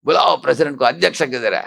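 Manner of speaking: mock the furious guest calling for the boss; angry demand. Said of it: "ऐसे तांडव करने लगा". (गुस्से में ऊँची आवाज़ में मांग)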